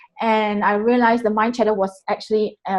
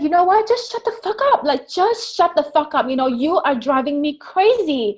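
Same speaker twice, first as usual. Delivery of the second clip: fed up; 5 semitones higher than usual. Retold or imitated. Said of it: "I said".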